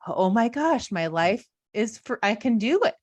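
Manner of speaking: giddy freedom rising; excited. Retold or imitated. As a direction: burst out Oh my gosh with sudden joy. Retold thrill of freedom.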